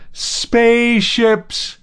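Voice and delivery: very high, loud and slow, stretched out; the howl stretched to its fullest; long drawn-out howl. A narrator's reading. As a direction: hold the howl long in wild joy. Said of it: "he howled in English".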